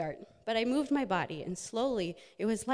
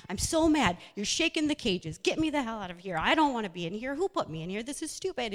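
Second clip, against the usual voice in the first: mock anger; 3 semitones higher, 4 dB louder than usual. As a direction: rattle the cage in pretend fury. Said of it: "And you're just angry, very angry".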